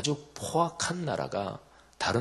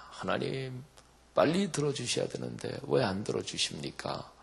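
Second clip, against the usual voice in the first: impatient pleading; 4 semitones higher, 4 dB quieter than usual. Retold or imitated. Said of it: "안타까워서 막 부르짖습니다".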